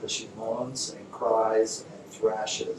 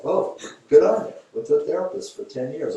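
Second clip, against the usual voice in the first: sarcastic praise; 5 semitones higher than usual. Retold or imitated. Therapist mocking client's ten years of therapy, sarcastic. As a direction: tease her with fake praise. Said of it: "I'm like".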